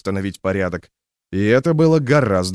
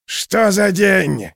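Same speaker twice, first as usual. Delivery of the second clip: slow, high drawn-out howl of glee; wailing yell; 9 semitones higher, 4 dB louder, much slower than usual. A narrator's reading. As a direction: howl it out to the sky. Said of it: "вопил мотыль". (протяжный вопль)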